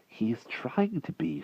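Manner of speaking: put-on earnest small boy speaking up; boy defending his friend to Merlin; young boy pleading. A narrator's reading. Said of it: "said the wart".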